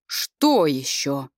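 slow, shaky, low question; trembling voice. A narrator's reading. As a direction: let the voice tremble. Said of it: "Голос Пресветлого дрогнул".

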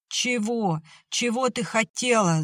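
yelling. A narrator's reading. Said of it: "заорал Семён".

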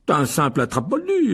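weary sighed explanation; sighing. Acted. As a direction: sigh it out on the last word. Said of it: "soupira monsieur Wesley". (dans un soupir)

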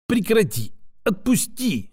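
a touch of panic, trying to break free; lightly voiced squirming protest; mild struggling protest. Woman caught in her friend's steel grip, lightly voiced protest. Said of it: "завозилась в стальной хватке".

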